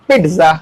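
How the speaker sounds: पिज़्ज़ा with an overdone hard t, "pit-zaa"; wrong pronunciation. Shown as a demonstration. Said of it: "आप ये भी नहीं कह सकते". (पिज़्ज़ा में ट पर ज़्यादा ज़ोर)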